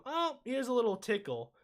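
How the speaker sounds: mock dainty. Host mocks weak lightsabers, mock dainty. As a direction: toss it off as if harmless.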